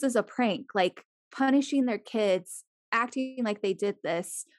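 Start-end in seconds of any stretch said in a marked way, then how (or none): none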